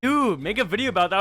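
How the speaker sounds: eager friend. Retold or imitated. Friend repeated.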